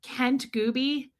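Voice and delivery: "Kent Gooby" slowly, as two separate words; slow, deliberate "Kent Gooby"; savoring the name. Shown as a demonstration. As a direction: say "Kent", then "Gooby", drawn out. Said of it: "I gotta do it again".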